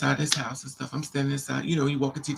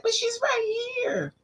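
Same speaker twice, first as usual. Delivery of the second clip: very high, long-drawn wail; mock tearful disbelief, squealed; exasperated retort; slower than usual. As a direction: stretch it out in a high whine. Retold exasperated retort amid his performance.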